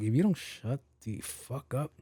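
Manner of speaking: restrained, irritated threat; pissed off. Retold or imitated. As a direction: hold back the annoyance as you retell it. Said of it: "she pissed me off".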